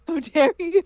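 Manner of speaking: mock outrage. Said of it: "and I go".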